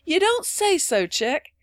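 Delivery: loud, high, drawn-out mock amazement; affected astonishment. A narrator's reading. Ben humouring little Phronsie, feigned astonishment. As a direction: play up hearty astonishment. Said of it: "affecting the most hearty astonishment".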